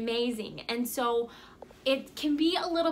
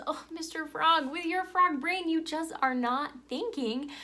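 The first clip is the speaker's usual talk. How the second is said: higher, lightly patronizing coaxing; condescending scorpion; 4 semitones higher than usual. Acted. Scorpion talks down to doubting frog, lightly condescending. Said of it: "this scorpion says".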